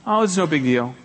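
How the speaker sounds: breezy, brushing the apology aside; dismissive wave-off. Shown as a demonstration. Preacher mimics someone shrugging off an apology, mildly breezy. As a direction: shrug it off lightly. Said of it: "Don't say".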